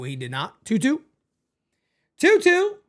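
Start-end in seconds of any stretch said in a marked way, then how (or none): 2.2-2.8 excited count. Acted. Streamer hyping the full count for chat, excited. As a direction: count called much higher and louder.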